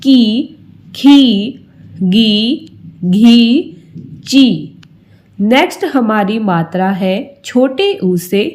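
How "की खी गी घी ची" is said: की drawn out, raised and pressed hard; long ee stressed. Shown as a demonstration. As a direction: push each की up and lean on it. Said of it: "थोड़ा जोर देना पड़ता है". (बड़ी ई पर ज़ोर देकर ऊँचा बोलना)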